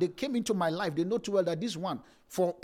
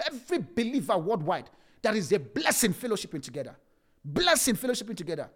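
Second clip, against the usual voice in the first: preaching fervor; 5 semitones higher, 4 dB louder than usual. Real, not acted. Preacher rising to full force.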